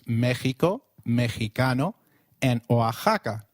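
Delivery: Mexico, Mexicano, Oaxaca with X as a throaty h; Spanish X, said h, in Mexico, Mexicano, Oaxaca. Shown as a demonstration. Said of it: "pronounced as a throaty H".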